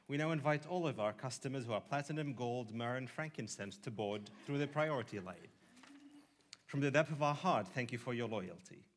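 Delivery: mock-posh British airline announcer; British accent. Gate agent calling priority boarding in a British accent. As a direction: lay on a polite British accent for the boarding call. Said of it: "I switched to a British accent".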